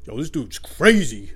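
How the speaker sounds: mock stunned reaction, drawn out; bewildered bully. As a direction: play an onlooker baffled by a madman. Imagined bully reacts to him.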